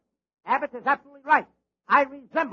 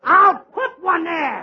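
defiant cry; 3 semitones higher, 5 dB louder, much slower than usual. Acted. Costello defiant after being corrected.

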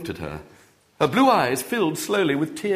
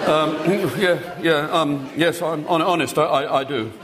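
put-on flustered boy; 3 semitones higher than usual. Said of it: "said the unhappy William".

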